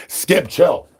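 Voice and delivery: high, sharp "Chill, Skip"; scolding. Real, not acted. Streamer scolding wound-up Skip, high call. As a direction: tell Skip off.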